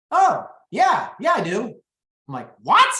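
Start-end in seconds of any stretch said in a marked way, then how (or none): 0.1-1.7 eager yes. Retold or imitated. Client surprisingly agrees to list. 2.6-2.9 high, loud stunned "What?"; a squeaky, loud double take; shocked what. Retold or imitated. Agent shocked by client's yes.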